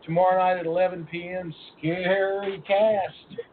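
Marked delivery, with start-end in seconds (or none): 1.8-3.4 stretched-out announcer's billing; show-title announcement. Pretend. Host billing tomorrow night's show to listeners, drawn-out announcement. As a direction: draw out each word hugely.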